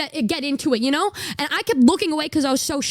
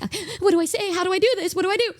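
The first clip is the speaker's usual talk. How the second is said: higher, flustered questions; flustered panic; 6 semitones higher, much faster than usual. Retold or imitated. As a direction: sound lost and nervous. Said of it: "I'm like".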